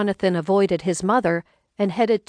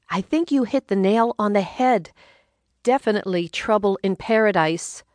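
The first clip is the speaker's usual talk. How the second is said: lightly voiced wife; 3 semitones higher than usual. Narrator voices Rhonda.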